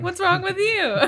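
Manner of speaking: high, loud, laughing through the words; laughing retort. Real, not acted. Podcast cohost laughing back at the quoted line, laughing loud. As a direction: toss it back while cracking up.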